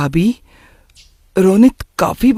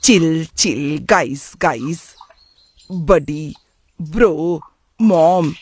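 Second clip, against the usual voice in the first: slow, drawn-out mock of youth slang; mocking imitation; slower than usual. Parent grumbling about how the young talk, mocking imitation. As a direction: mimic the slang word by word, disapprovingly. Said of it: "क्या कहते रहते हैं".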